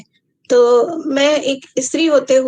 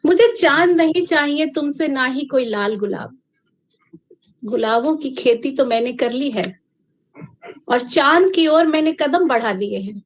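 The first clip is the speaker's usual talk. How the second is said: measured poem reading with long pauses; unhurried verse recitation; poetry recital. Acted. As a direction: recite line by line, letting each phrase land.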